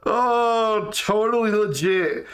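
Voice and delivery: high voice just out of a laughing fit. Real, not acted. Streamer telling Gina it's totally legit, still tickled with laughter. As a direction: squeeze the words out high after cracking up.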